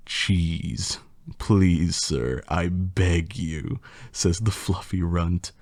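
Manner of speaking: lightly theatrical poem reading; reading a silly poem to the audience with mock drama; hammed-up storybook recital; story narration. Reads rhyming story aloud.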